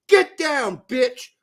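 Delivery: loud, high tough-guy yell; aggressive shout. Pretend. Imagining grabbing the ball from the player, loud and high. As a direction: bark it like you're starting a fight.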